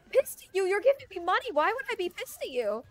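high, loud, disbelieving retort; hammed-up bafflement at the very idea; retold incredulity. Retold reply, incredulous at misunderstanding.

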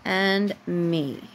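slow, even storybook reading; reading to a child. A narrator's reading. Mom reading a bedtime book to her daughter, slow storybook voice. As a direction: read the picture book aloud, unhurried, for a little one.

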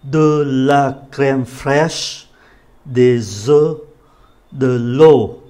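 slow, careful French list; slow read-through. Shown as a demonstration. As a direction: read each item slowly for learners. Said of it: "đọc lại một lần đầu thật là chậm". (đọc chậm rãi từng từ)

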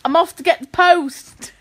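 mock London accent; attempted London accent. Taking a London accent challenge, mock London accent. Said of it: "Do a London accent".

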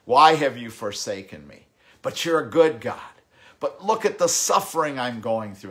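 a loud plea from the cross; anguished cry. Retold or imitated. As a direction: cry out under the weight of suffering. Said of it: "he's crying out".

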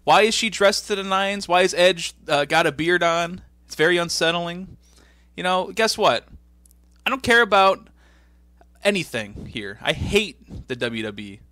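high, loud hammed-up wrestler promo; imitating Foley's promo. Host retelling Foley's promo, hammed-up high voice. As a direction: belt it out like a cartoonish Foley. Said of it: "He's like".

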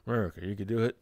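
lightly put-on patriotic catchphrase voice; Cletus McFarlane. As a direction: cheer someone on with a hint of impression. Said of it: "you know, Cletus McFarlane".

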